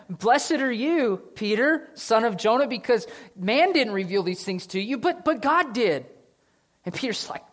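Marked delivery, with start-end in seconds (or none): 0.1-6.0 Jesus blessing. Acted.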